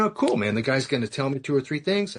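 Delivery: eager relief. Retold or imitated. Eager thought before expected easy fix.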